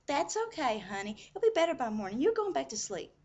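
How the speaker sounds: high, loud mock-soothing nurse; gentle nurse. Nurse humoring the patient about morning, mock gentle. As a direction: humor an upset patient in an exaggerated coaxing voice. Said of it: "trying to be real gentle".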